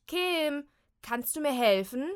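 high, loud call. Acted. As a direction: call down from the attic. Ruft vom Dachboden herunter. (laut nach unten rufen)

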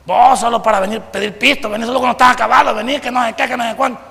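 a father's fast, scolding rant. Retold or imitated. Father scolding son who comes asking for money, fast and annoyed. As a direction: rattle off the complaints like an annoyed dad. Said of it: "¿qué le dice?".

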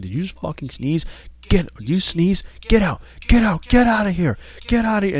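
hammed-up high, loud outburst of a tyrant boss; Vince McMahon. Boss at a steak dinner throwing out a sneezer, mock furious. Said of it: "supposed to be Vince McMahon".

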